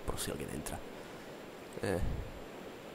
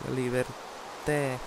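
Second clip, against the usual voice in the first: slow savoring; 4 semitones higher, much slower than usual. Acted. Repeats slowly, dreamily.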